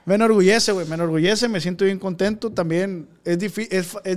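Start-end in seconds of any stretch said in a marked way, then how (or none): 0.1-0.7 laughing. Real, not acted. Proud, laughing at the record.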